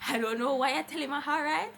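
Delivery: laughing loudly at her own story; loud laughing aside. Real, not acted. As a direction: laugh through the words. Laughing at herself.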